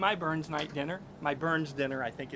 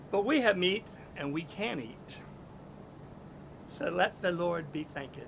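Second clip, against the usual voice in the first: plain recited grace. Shown as a demonstration. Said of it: "I'm not even gonna try to do a Scottish accent".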